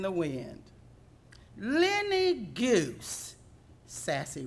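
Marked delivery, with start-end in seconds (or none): 1.6-3.4 drawn-out, high exclamation; startled shout of recognition; surprised recognition. Acted. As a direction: call out the goose's name in surprise. Sassy spots the old goose.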